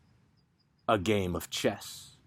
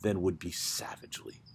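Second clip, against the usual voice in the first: breathy whisper, voice dropping away; hushed whisper; 4 semitones lower, 7 dB quieter than usual. Acted. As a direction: let the words sink into a whisper. Hushed turn in the poem.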